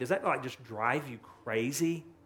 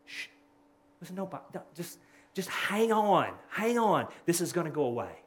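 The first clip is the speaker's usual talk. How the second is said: hushed soothing; 2 semitones higher than usual. Retold or imitated. Hushing a family member.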